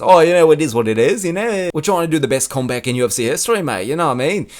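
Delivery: roughly imitated Australian fighter; shaky Australian accent. Comic admitting he can't do it, rough Australian accent. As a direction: have a go at a matey Australian accent. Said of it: "not good at the Australian accents".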